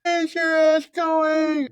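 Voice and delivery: mock a furious coach tearing into you; hammed-up coach yell at a player. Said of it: "Coach Holtz is on my head".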